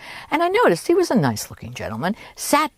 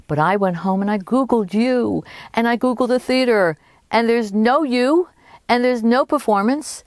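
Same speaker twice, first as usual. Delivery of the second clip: retold indignant challenge, pitched up; accusing confrontation; 7 semitones higher than usual. Passenger exposing the ticket swindler, indignant and accusing. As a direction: press each accusation, higher than usual talk. Narrator confronts the con man.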